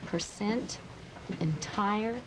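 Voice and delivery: "Percent, entire" with the first syllables skipped over quickly and rising; stress on the second syllable. Shown as a demonstration. Teacher shows the class second-syllable stress. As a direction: glide past "per" and "en", land on the second syllable. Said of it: "Same thing here".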